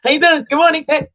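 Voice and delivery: high, sing-song greeting; mock gushing guy. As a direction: sweet-talk the room. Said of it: "used to guys coming in".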